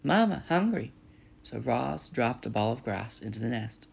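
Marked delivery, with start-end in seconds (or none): 0.0-0.9 put-on high, loud baby gosling voice; peeping gosling. A narrator's reading. Hungry gosling calling to mother, high peeping voice. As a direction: peep it out high, like a needy chick. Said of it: "Bright Bill started peeping".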